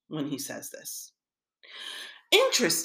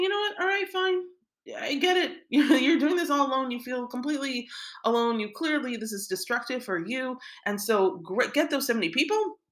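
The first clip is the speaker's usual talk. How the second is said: lightly voiced God; 6 semitones higher than usual. God voiced answering Moshe.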